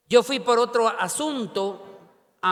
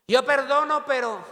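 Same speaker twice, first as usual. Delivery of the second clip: slightly raised mock protest; quoted objection, voice lifted; mimicked conditional forgiveness; 4 semitones higher than usual. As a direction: lightly imitate someone hedging.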